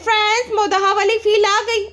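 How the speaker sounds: lightly ape her sweet tone; mock vlogger. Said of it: "कहते हैं".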